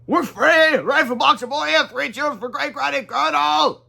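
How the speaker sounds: high, loud freed cheer; joyful cheer. Acted. Rescued grandparents cheering the heroes, loud joyful cheer.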